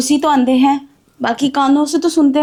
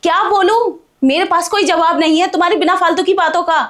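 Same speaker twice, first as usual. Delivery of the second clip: higher pitched, fed-up scolding; irritated complaint; 5 semitones higher than usual. Acted. Bahu fed up with her father-in-law's nagging, irritated. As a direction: snap back, fed up with him.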